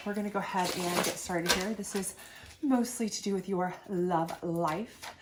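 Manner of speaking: congested voice from a sinus infection; stuffy nose. Real, not acted. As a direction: talk through a blocked nose. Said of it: "I know I sound awful".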